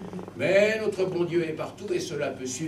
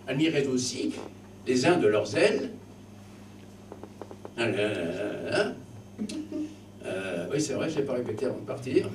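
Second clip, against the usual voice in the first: pompous teacher voice; mock schoolmaster lecture. Schoolmaster praising the verse to his pupils, pompous. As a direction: lecture the class with mock reverence.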